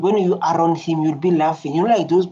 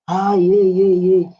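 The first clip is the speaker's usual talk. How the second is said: crowd cheering; 4 dB louder than usual. Retold or imitated. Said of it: "the people in the background".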